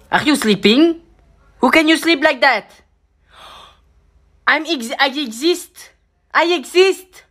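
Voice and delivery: high, loud squeaky voice; a small creature protesting; squeaky cartoon voice; high character voice.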